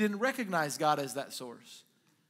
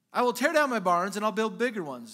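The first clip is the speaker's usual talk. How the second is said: loud, higher, grand announcement; acted self-satisfied proclamation; boastful declaration; 4 semitones higher, 7 dB louder than usual. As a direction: play a rich man proclaiming his big plans. Rich man boasting of his plans.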